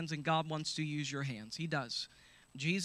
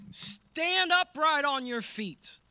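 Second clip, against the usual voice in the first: slow, loud, much higher shout; Paul commands in a loud voice; 8 semitones higher, 7 dB louder, much slower than usual. Acted. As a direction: shout it with authority. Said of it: "said in a loud voice".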